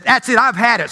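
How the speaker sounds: mildly exasperated outburst; fed up. Acted. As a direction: act out a woman at her limit. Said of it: "she's really getting fed up".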